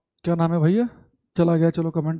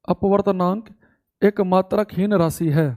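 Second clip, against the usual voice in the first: measured Hindi phrase for note-taking; teacher dictating the definition; slow dictation; slower than usual. Shown as a demonstration. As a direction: read it out slowly for writing. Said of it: "तो लिखेंगे".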